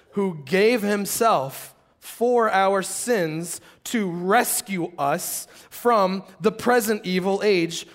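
slow, solemn Bible reading; scripture reading. Real, not acted. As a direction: lay each phrase down slowly and weightily. Rereads the verse slowly.

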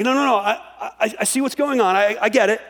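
a lightly voiced, upbeat God reassuring the prophet. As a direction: tell him confidently you have a plan. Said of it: "He's like".

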